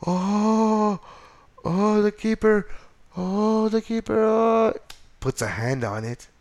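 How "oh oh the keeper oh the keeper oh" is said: excited. Real, not acted. Reliving the free kick live.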